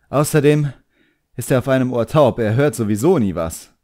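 put-on a proud young magician snapping back at his demon; the boy, irritated. A narrator's reading. Boy voiced in story.

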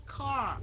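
"Car" with a KH-like opening; aspirated K. Shown as a demonstration. Teacher linking C to Vietnamese KH, airy "Car". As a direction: puff air on the C of "Car". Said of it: "K H, phải không?".

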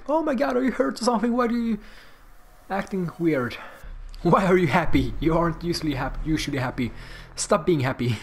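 hint of a fussing dog's voice; mock concern, easing back toward normal; lightly voiced worried dog. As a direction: lightly act out a pestering dog, starting high and quick. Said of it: "Now my dogs is like".

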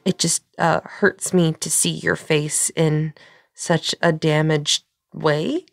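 flustered, stammering and restarting; tongue-tied and high-strung, drawing out the corrected phrase. Acted. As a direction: trip over the words, nervously correcting yourself. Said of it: "very high strung right now".

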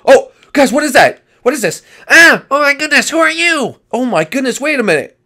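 loud, high-pitched yelps of alarm; panicked, astonished shouting; startled. Acted. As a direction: jump back and cry out in shock. Startled by a sudden stranger.

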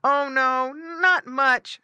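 high little pig reply; piglet. Acted. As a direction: answer as a brave small pig. Piglet answers dog.

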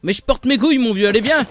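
loud challenge. Real, not acted. Player confronting the one who attacked him earlier, loud challenge. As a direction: call the attacker out loudly.

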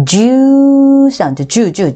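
"주" isolated and stretched, then repeated short; "주" modelled as a glide sound, not a bare "oo". Shown as a demonstration. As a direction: hold "주" long with a glide at the front. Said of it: "발음이 우 사운드가 아닌".

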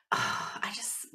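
breathy whisper, trailing off; words barely there, choked up. Real, not acted. Fan choked up recalling Max's scenes, whispering.

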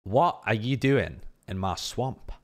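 slow, unshouted movie line; deadpan anti-performance of a requested shout; deliberately underplayed. Shown as a demonstration. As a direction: refuse the shout, say it slowly in your own voice. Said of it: "the exact opposite manner to the, uh, to the style you asked".

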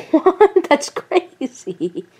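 a hint of a giggly liar playing dumb; sly innocent Gengar. Gengar denying he spied, giggling innocence. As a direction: laugh it off, feigning innocence.

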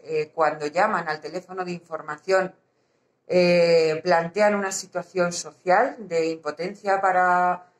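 muffled behind a mask; through a face mask. Real, not acted. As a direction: speak through a surgical mask. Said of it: "me canso de hablar con la mascarilla".

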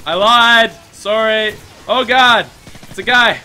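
loud, high yelps of alarm; startled shouting. Real, not acted. Gamer suddenly spotting an enemy, real startled shout. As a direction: blurt it out, caught off guard.

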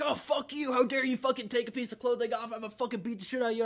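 quick, high-pitched mock outrage; retold yelling. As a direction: imitate an outraged friend's rapid rant without real volume. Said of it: "yelling more like".

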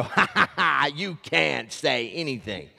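gloating mock laugh, then teasing. Pastor imitating his wife, gloating with a mock laugh. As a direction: laugh at a spouse who can't talk back. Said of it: "they get to sit back and go".

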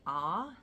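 R as a bare "ah", no R sound. Shown as a demonstration. Explaining New Zealand speech to viewers, R without the R sound. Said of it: "you don't really pronounce the R's".

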